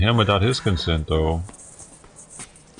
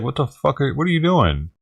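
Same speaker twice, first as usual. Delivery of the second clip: mock angry outburst; 7 semitones higher than usual. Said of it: "I'd be like".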